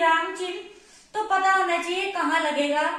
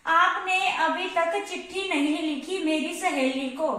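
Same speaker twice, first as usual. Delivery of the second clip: slow read-out running "लिखी" on into "मेरी सहेली को", ending after को; misplaced full stop. Shown as a demonstration. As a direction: read the letter slowly with no break after लिखी. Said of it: "उसने ऐसे लिख दिया".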